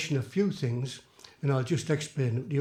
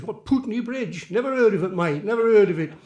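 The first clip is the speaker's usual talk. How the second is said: higher-pitched, incredulous stranger; baffled passer-by; 5 semitones higher, 4 dB louder than usual. Acted. Stranger answering a lost visitor asking for directions, baffled. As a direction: play a stranger who has no idea. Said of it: "he says".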